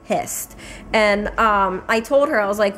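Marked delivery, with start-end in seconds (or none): 0.1-0.6 whispered anger. Real, not acted. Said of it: "and I am just like".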